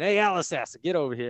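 mock drill sergeant shout, high on Hey; retold yell. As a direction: call him over like a drill sergeant, half-hearted. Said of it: "he yells at me again".

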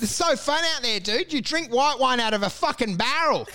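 high-pitched mock enthusiasm; naive raving. Mate thinks slumming is fun, high mock gushing. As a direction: gush like a deluded tourist.

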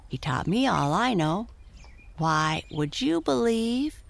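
high friendly pony voice; talking pony. Acted. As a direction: tell it like a proud little pony. Prancer voice.

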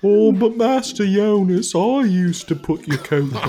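affectionate nagging. Pretend. Jealous servant Percy voiced.

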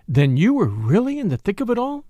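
a hint of jealous society lady; envious Lady Tamplin. Lady Tamplin envying Catherine's adventure, mildly envious. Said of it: "said Lady Tamplin enviously".

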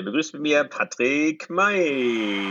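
ring announcer. Acted. Introducing guest like ring announcer.

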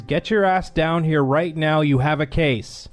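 relayed order. Retold or imitated. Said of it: "tell you this exactly the way I was told it".

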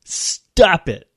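sudden explosive yell, imitating the psychiatrist; yelled command. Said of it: "he yells at her".

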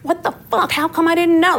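high, startled disbelief; mild mock shock; high squeaky what-the-hell; retold outrage.

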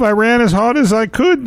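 silly high-pitched mock Irish; hammed-up Irish. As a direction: overdo the Irish accent in a high voice. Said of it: "I'm Irish".

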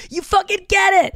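high, hammed-up delighted voice; answering a fan who knows the podcast, high thrilled voice; mock thrilled. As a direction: gush back at the fan.

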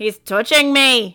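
hammed-up alarmed witness; frantic witness. Frantic witness quote acted out.

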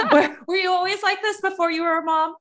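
laughing question, pitch way up. Real, not acted. Host laughing as she teases guest about being perfect. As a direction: tease her through real laughter.

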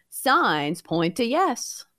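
slow drawn-out oracle answer; mystic oracle voice. Pretend. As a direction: intone the answer slowly. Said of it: "Time for a little sorcery".

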